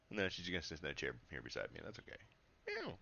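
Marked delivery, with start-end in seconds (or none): 2.7-3.0 cat meow. Real, not acted. Meowing at the cat.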